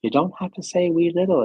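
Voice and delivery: high mock Irish correction; lightly voiced Irish friend correcting her; imitating Fergal. Fergal teasing her about wee little, high light mock. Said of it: "Fergal says".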